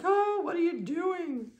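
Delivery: high, drawn-out protest for a puppy; startled puppy. Pretend. Breeder voices the puppy being handled, mock startled high voice. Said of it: "He's like".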